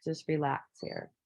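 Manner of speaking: self-calming. Retold or imitated. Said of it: "So it's like".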